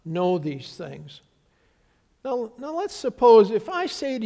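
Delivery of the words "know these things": slow, drawn-out disbelief; implied disbelief. Retold or imitated. Disciples implying the stranger should know, slow disbelief. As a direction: stretch it out, incredulous. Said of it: "they really mean to imply".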